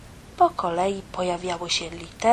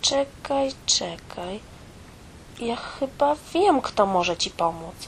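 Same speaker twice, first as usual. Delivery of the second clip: light, excited and higher; a sudden happy idea; the mouse remembers who can help, delighted; delighted exclaim; 4 semitones higher than usual. Acted. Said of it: "wykrzyknęła uradowana".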